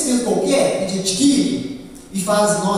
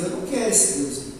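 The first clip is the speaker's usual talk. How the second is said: voicing the ungodly; 5 semitones lower, 4 dB quieter than usual. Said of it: "os ímpios olham pra Deus e falam assim".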